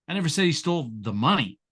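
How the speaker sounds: said hit and falling away; said stressed, ending firm; said weighted, statement fall. Shown as a demonstration. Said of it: "Say the same exact thing six different ways".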